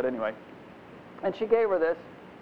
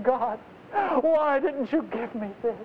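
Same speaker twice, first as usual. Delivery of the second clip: higher, whining plea to God; whiny complaint; 7 semitones higher than usual. Retold or imitated. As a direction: sulk like a spoiled child. Ungrateful believer complaining to God.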